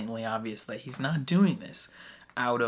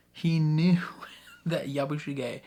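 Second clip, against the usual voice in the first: whispered aside; 3 semitones higher, 4 dB louder than usual. Real, not acted. Dramatic secret revelation.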